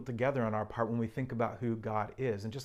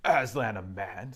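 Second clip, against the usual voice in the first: stern; 2 semitones lower, slower than usual. Acted. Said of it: "said Mister Beaver sternly".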